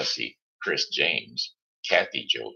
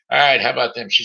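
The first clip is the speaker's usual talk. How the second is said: excited segment intro; 9 semitones higher, 10 dB louder, much faster than usual. Acted. Host hyping the next segment.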